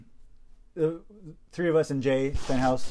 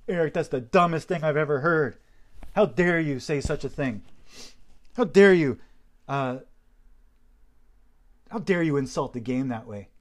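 retold yelling boss. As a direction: play the outraged boss berating him. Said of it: "I was yelled at".

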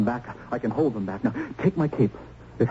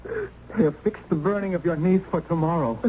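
tearful; 5 semitones higher than usual. Acted. Tells uncle of niece's burning.

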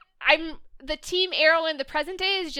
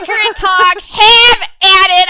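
dismissive; 5 semitones higher, 12 dB louder than usual. Real, not acted. Dismissive rant.

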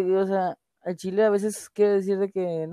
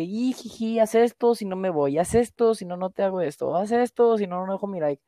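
mock whiny kid. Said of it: "los niños son muy de que".

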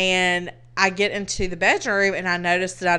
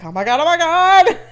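higher, louder breathless oh my God; frantic relief; 9 semitones higher, 8 dB louder than usual. Retold or imitated. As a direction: gush it out on the phone in panic. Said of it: "was like".

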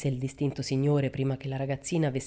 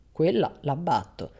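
decisive; slower than usual. Acted. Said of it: "disse deciso".

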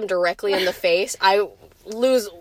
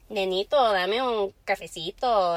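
lightly imitated Cuban Spanish; slow Cuban-accented Spanish with muffled mouth. Shown as a demonstration. Showing friends the "ito" endings, Cuban accent. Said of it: "like they have cotton in their mouth".

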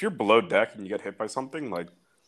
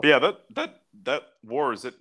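voice cracking; 3 semitones higher than usual. Real, not acted. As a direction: voice cracks mid-sentence. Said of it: "Wow, voice crack right there".

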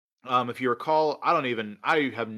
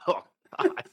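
spit take; 7 semitones higher than usual. Real, not acted. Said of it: "Almost got Alex with the spit take there".

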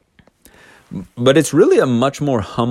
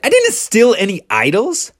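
higher, protesting denial; indignant denial; 10 semitones higher than usual. Retold or imitated. Jacob denying he stole the idols. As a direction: protest innocence. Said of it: "Jacob is like".

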